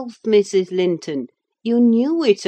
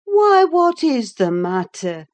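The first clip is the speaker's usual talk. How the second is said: loud, higher-pitched exclamation; urgent and raised; alarmed cry; 8 semitones higher, 9 dB louder than usual. A narrator's reading. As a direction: cry out to someone in distress. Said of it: "cried I".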